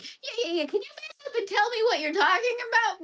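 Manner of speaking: pleading confusion. Retold or imitated. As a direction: beg the doll to come back, bewildered. Retelling pleading with AK-15.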